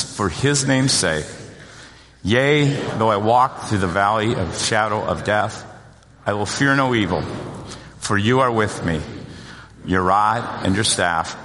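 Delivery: measured, phrase-by-phrase scripture recitation; congregational recitation. Acted. Pastor leading congregation in saying the psalm, measured recitation. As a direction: lead them through it with pauses between phrases.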